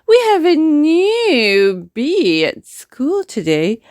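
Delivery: high, proper queen bee voice; queen's voice. Acted. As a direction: announce the news as the queen, lifted high. Queen announces new pupil.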